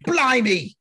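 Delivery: high-pitched, loud comic British exclamation; exaggerated yelp, pitch leaping up; mock yell. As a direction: yell it out as a hammed-up Brit. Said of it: "You just yelled".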